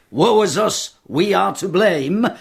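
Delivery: high, slow mock wail of woe; mock lament. Senator mocking the empire's forced apology, wailing. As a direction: ham up the public breast-beating. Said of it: "cry out".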